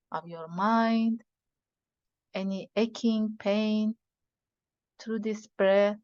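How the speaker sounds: measured breathing instructions with long pauses; guided meditation. Acted. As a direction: guide them unhurriedly through each breath.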